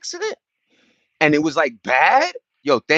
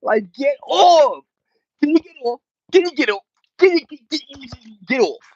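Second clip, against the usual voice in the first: exasperated; 11 semitones higher, 3 dB louder than usual. Acted. Annoyed at chiming-in viewers.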